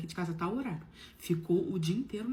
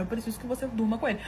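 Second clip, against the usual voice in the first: blunt, point-blank; 4 dB louder, faster than usual. Retold or imitated. Husband asking right to his wife's face, bluntly. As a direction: imitate an unhesitating, straight-out request. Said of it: "Assim, na lata, na minha cara".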